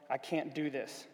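low, soft self-doubting mutter; muttered to himself. A narrator's reading. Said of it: "he muttered to himself".

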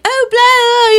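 very high mock babble; high character voice. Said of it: "two octaves lower than her voice".

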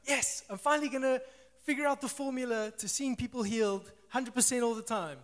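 bursting with naive excitement; eager excitement. Retold or imitated. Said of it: "I was like".

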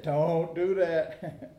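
slow, deliberate mock warning; a hint of a stern knee surgeon; quoting the surgeon. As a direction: spell it out like a doctor laying down the law. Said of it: "my knee surgeon said".

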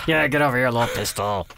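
a hint of tough-guy coaxing to the dog; cooing to a dog. Shown as a demonstration. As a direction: coax the little dog close. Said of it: "all the way you say the name".

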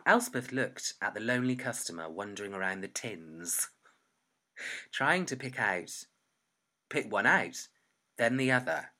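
measured reading with deliberate pauses; story narration. Acted. Writer reading her draft about a shopkeeper, measured pausing narration. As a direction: read it out phrase by phrase. Reads own story aloud.

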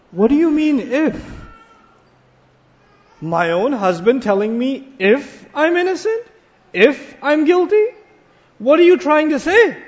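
angry retort. Retold or imitated.

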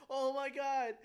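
high, loud gushing squeal; mock drunk girl squeal. Imitating drunk girls meeting puppies, loud high squeal. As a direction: gush like a tipsy girl seeing puppies. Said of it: "they're like".

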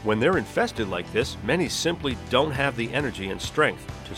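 documentary narration; nature documentary. Acted. Scripted podcast intro over music.

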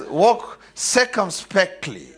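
"circumspectly" drawn out slowly; big word, carefully. Real, not acted. Preacher rereads the King James verse, "circumspectly" slow and deliberate. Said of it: "that's a big word".

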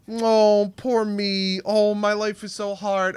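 whiny self-pitying mock; imitating a whiny, self-pitying sob story. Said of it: "He's, like, whiny and, like, self-pitying".

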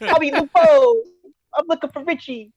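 high tough-guy voice, laughing; Seagal impression. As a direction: ham up the movie cop threat. Quoting Seagal movie line.

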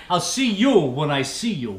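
brusque mock New York brush-off; New York accent. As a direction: dismiss them like a New Yorker. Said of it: "New York".

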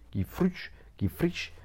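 breathy mock stumble over fourche; a hushed joking slip of the tongue; playful whisper. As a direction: whisper the garbled word playfully.

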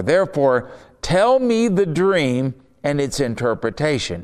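measured, declaiming Bible reading; scripture reading. Acted. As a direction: read the king's threat with weight. Reads scripture aloud.

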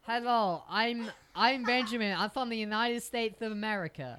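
put-on British speaker faking an American accent; attempted American accent. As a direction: introduce yourself in a mock American accent. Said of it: "I can't do the accent".

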